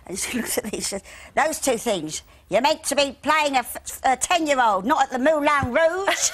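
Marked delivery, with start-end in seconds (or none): 1.4-6.3 higher, louder scolding tease; bossy dresser. Retold or imitated. Wardrobe mistress teasing the girl about her figure, loud. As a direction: tell her off with a cheeky jab. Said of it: "play that wardrobe mistress".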